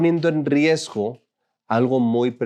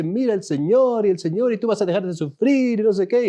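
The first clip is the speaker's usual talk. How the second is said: put-on Brazilian-accented preacher; 8 semitones higher than usual. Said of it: "hablan con el acento brasileño".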